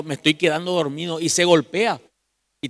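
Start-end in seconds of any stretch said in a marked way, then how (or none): 0.0-1.2 sleepy murmur. Retold or imitated. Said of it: "uno está diciendo".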